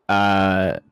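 slow, loud game-show call; drawn-out segment announcement. Pretend. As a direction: stretch it like a game host.

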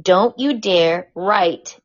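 mock the abusive message as a raging sleazebag, hammed-up; a hint of an angry bully, cursing with punches of volume; Joe Francis impression. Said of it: "here's my best impression of Joe Francis".

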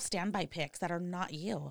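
conspiratorial whisper. Real, not acted. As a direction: whisper the secret tip. Conspiratorial sexting advice.

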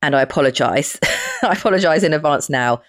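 hoarse voice from a cold; croaky, rough from a cold. Real, not acted. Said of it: "my really strange croaky voice".

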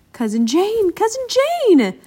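loud searching cry, stretched the second time; calling shout. A narrator's reading. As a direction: call out for someone lost. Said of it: "Bill shouted".

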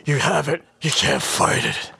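Stallone impression. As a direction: mumble it like Rambo. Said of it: "give me a good sample of a, of a Stallone".

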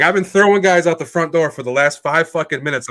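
loud, high, angry retold tirade; yelling at cops. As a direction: yell an outraged complaint at the cops. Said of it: "I start yelling at the cops".

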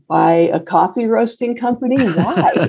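puzzled, amused disbelief; incredulous. Retold or imitated. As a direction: question it in mock bewilderment, rising to "Why?". Retold reaction to surprising advice.

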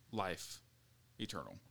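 breathless, trailing off quietly; running out of air; out of breath. Real, not acted. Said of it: "I'm out of breath".

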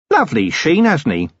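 a cheerful, long-winded hermit eager to explain; chatty old hermit. Acted. Hermit admires the skull.

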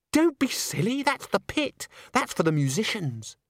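high, airy scolding; trilling Christine. Acted. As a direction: trill it like an excitable ingénue. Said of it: "trilled Christine".

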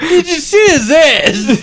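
high, slow squeaky Walken voice; helium voice. Retold or imitated. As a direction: pitch it way up like helium, slowly. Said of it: "Say it again".

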